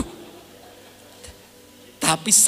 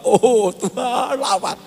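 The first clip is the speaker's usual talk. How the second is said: slow, hesitant prayer that fades out at the end; unsure prayer; 5 semitones higher, slower than usual. Retold or imitated. Preacher imitates his own doubtful first prayer, hesitant. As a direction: pray it without believing it. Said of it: "Kamu tidak yakin ya?".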